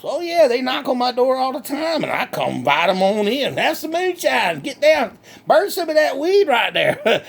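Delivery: lightly voiced country hick, cheerful and boastful; redneck Bubba. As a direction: play a proud backwoods redneck bragging. Comic plays redneck Bubba.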